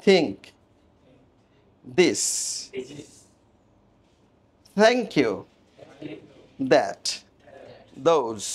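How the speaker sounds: "Think" and "thank" with voiceless TH, "this", "that", "those" voiced; TH word demo. Shown as a demonstration. Teacher contrasting English TH in example words, careful pronunciation demo. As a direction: set out each TH word separately. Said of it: "থা এর মতো, কখনো দা এর মতো".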